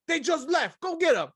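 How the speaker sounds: high mock old-lady voice; pointing the way, eager to snitch. Old lady tells Tiffany Haddish where they went, high voice. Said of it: "the old lady's like".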